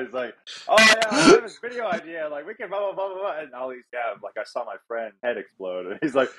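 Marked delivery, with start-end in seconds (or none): 0.7-3.4 high, oblivious mock blabbing; imitated loud talker. Friend blabbing in the background of a serious interview, mock loud. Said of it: "like, loud as fuck in the background". 3.9-5.9 imitated low serious talk. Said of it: "We're, like, kinda talking low".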